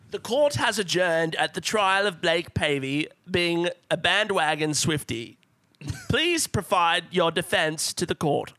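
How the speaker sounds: slow, measured courtroom proclamation; lightly hammed-up judge opening a trial; mock court judge. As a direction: intone it like a judge, slowly. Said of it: "need to get my wig so it's fair".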